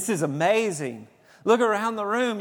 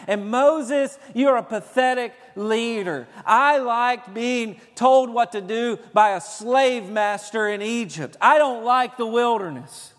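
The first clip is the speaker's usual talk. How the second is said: griping Israelites, a bit louder; mock complaining; 2 semitones higher, 4 dB louder than usual. Preacher mimics Israelites blaming Moses, mock complaint. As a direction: grumble at Moses like a spoiled complainer. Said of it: "they began to whine, and they began to complain".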